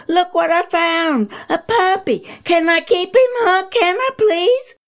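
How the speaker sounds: put-on high, eager child's begging; excited child. Boy begs his mom to keep the puppy.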